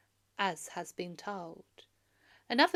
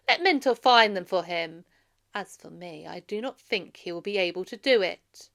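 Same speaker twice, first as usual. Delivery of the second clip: mocking suitor; 7 dB louder than usual. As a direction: sneer at Mentor's warning. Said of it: "Then stood up one of the suitors and said".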